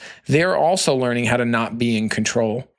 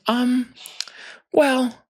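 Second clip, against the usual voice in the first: much higher, hesitant mom voice with a nervous laugh; imitating mom; 8 semitones higher than usual. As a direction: play a polite grandma hiding her dislike. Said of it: "she just looks and goes".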